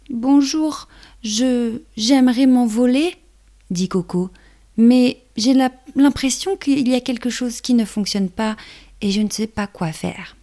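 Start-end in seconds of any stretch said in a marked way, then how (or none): 0.1-3.1 high little ladybug voice; small hesitant ladybug. Acted. Baby ladybug character speaks. 4.8-10.4 high little ladybug voice; small hesitant ladybug. Acted. Baby ladybug worried.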